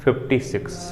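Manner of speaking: slow, measured dictation to a class; spaced-out words with pauses between phrases. Acted. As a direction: read it out phrase by phrase for note-takers. Dictates a question to students.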